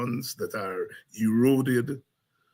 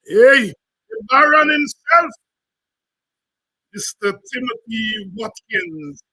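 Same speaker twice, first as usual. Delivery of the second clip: announcer hype; 8 semitones higher, 9 dB louder than usual. Real, not acted. Announcing the singer.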